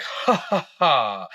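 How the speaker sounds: mock laugh, starting high; imitated peddler laugh. Peddler at the offered money, imitated mocking laugh. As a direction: fake a scornful ha-ha, dropping in pitch.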